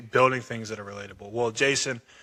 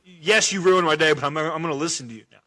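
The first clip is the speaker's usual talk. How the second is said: mock amused reply; 3 semitones higher, 4 dB louder, faster than usual. Voicing amused prospect.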